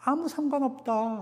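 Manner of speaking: quoting Paul with a high, insistent 아무. Retold or imitated. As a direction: lift 아무 high, then let it go soft. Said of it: "바울이 뭐라 그래요?".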